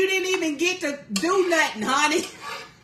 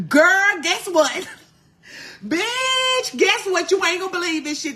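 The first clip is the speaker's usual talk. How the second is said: bursting to spill the news to a friend; louder, eager girl-guess-what; can't hold in the gossip; excited gossip; 3 semitones higher, 3 dB louder than usual. Retold or imitated. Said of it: "call your friend ... tell him what the deal was".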